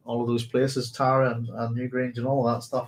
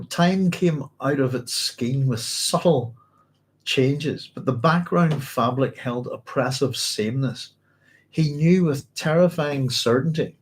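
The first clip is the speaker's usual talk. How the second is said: slow measured read of the text; book reading. Acted. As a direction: let each line of the passage land, slowly. Reading the next passage aloud.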